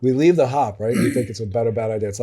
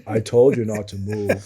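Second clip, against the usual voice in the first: flat and even, no yelling; calm deadpan threat; monotone voice; 2 semitones lower than usual. Retold or imitated. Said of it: "Like, in a monotone voice".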